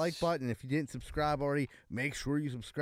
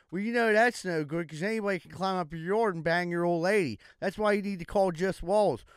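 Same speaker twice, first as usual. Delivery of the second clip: higher-pitched crude contractor hawking walls; hammed-up pitchman; 6 semitones higher, 7 dB louder than usual. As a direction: play a pushy contractor cold-selling. Third mock ad, higher voice.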